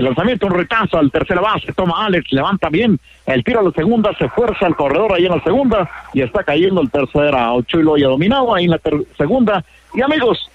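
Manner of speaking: quick rising call of the force play at second; excited play call. Real, not acted. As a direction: let the voice jump up as the out is made.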